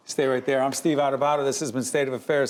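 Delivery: talking a bit out of breath; short of breath while signing off. Real, not acted. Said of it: "I'm out of breath".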